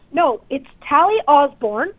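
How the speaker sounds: slow, defensive name correction. Retold or imitated. Correcting the officer who got her name backwards, defensive. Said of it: "I'm, I'm defensive".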